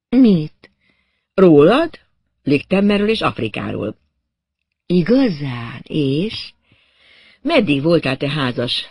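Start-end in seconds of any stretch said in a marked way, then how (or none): 0.1-6.5 curious. Acted. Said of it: "Kíváncsian félrehajtotta a fejét".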